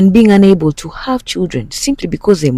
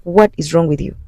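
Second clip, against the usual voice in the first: angry yelling; 6 semitones higher than usual. Retold or imitated. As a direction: yell it at him in disbelief. Wife yelling at cheating husband.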